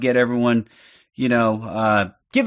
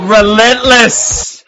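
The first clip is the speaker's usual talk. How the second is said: drawn-out relish; 7 semitones higher, 7 dB louder, much slower than usual. Real, not acted. Streamer replaying a brutal knockout, drawn-out gloating relish. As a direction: stretch it out slow, high and loud.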